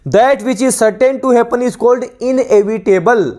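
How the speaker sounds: slow, deliberate reading of a definition for students to copy; measured classroom dictation, every word spaced; dictation pace. Shown as a demonstration. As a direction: read it out word by word like a teacher dictating.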